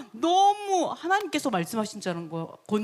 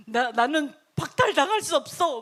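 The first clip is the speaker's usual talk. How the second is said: raised, insistent royal protest; emphatic self-assurance; 3 dB louder than usual. Acted. King to priests about his right, emphatically insistent. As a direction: push it out forcefully, refusing to doubt. Same king's words, emphatic second take.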